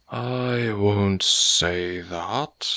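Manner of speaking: very slow, guarded reply; cautious. Acted. Landlord answers the odd request, slowly and cautiously. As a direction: weigh each word warily. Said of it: "replied the other cautiously".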